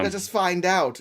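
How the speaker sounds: Bond villain. Pretend. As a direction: lightly play the scheming supervillain. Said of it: "like, a Bond villain".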